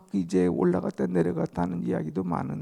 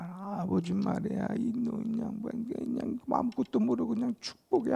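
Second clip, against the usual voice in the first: soft higher complaining mutter; grumbling mutter; 6 semitones higher, 7 dB quieter than usual. Retold or imitated. Esau grumbling about his old father, muttered softly and high. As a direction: mutter a grudge under the breath. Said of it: "막 중얼중얼 하면서 막 불평".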